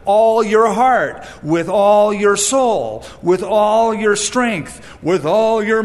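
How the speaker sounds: loud, slow, weighty recital of scripture; solemn recitation. Acted. Preacher quoting the commandment with slow loud weight. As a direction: proclaim each line slowly.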